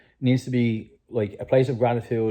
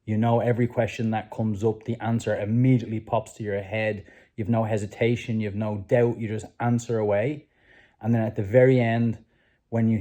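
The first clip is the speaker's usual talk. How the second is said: guided visualization. Acted. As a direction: paint the room for them, gently.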